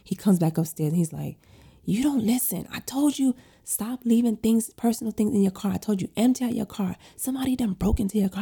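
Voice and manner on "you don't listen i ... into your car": imitating her husband scolding, pitched higher; mock scolding from husband. Husband scolding wife about leaving things in car, pitched higher.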